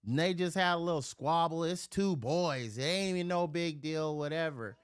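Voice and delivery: pleading mom. Retold or imitated. Mom explaining the cousins' fight to the judge, pleading. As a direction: lightly imitate a mom reasoning with a judge.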